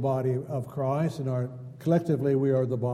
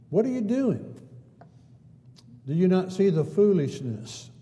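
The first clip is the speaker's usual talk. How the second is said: incredulous mock questioning, pitch lifting on the questions; lightly sarcastic preacher's challenge; mildly sarcastic; 3 semitones higher than usual. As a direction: question their logic with a touch of sarcasm. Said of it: "being a little sarcastic, he's saying".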